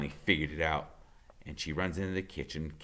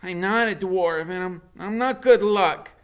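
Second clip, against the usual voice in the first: put-on protesting boy; 12 semitones higher, 9 dB louder than usual. A narrator's reading. Freak protesting to Loretta, high and indignant. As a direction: push back indignantly.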